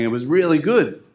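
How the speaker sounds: "really" given a clear spoken push; stress on really. Shown as a demonstration. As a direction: lean hard on "really". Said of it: "we emphasize it usually by saying".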